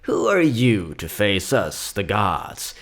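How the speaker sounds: a hint of a grandma gathering her grandchildren round; old grandma storyteller. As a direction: tell it like a folksy old grandmother to the kids. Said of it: "Grandma Millie got an old tale to tell ya".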